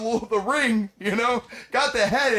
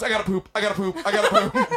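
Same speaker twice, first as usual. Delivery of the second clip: mock urgent wife; faster than usual. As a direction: squeal it like she has to run. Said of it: "my wife goes".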